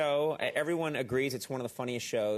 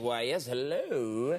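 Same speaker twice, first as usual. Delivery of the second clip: smug gracious reply; 3 semitones lower, much slower than usual. Retold or imitated. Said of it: "I'm like".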